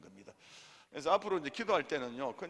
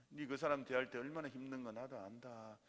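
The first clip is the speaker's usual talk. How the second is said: softer, understanding reply; God answering; 3 semitones lower, 5 dB quieter than usual. Acted. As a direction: lightly voice a consoling God. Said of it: "그래놓고 있어 하나님께서". (부드럽게 위로하는 하나님 목소리)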